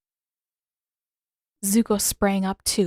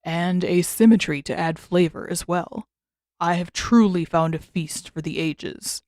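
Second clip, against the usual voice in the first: deep rich creature voice; 3 dB louder than usual. Acted. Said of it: "in a deep, unnervingly rich voice".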